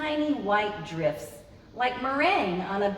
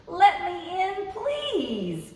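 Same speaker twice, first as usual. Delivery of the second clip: higher begging kitty voice; pleading cat voice; 8 semitones higher, much slower than usual. Acted. Cat begs in story.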